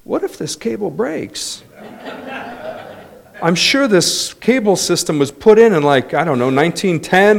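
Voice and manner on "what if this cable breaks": mock fearful. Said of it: "No, I was thinking".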